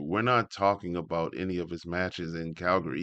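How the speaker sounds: ordinary talk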